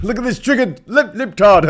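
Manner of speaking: high mocking jeer, teasing the pout; mocking sneer. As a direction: sneer it out like a schoolyard taunt. Mocking the politicians' sulky faces.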